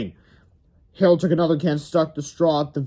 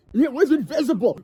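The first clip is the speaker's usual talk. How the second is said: put-on much higher boy shout; hammed-up cry; 10 semitones higher than usual. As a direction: sell the ghost story. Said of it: "cried George".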